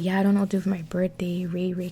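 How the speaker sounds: quick mock whisper as Betty; imitating Betty. Mocking Betty asking about her birthday in a whisper. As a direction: breathe Betty's words fast and hushed. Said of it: "Betty was like".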